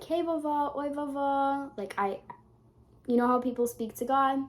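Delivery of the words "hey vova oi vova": higher, sing-out greeting; greeting grandma. Retold or imitated. Granddaughter greeting her guardian-angel grandma, higher-pitched hello. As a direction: call to grandma in a raised pitch. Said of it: "I speak to my grandma like that".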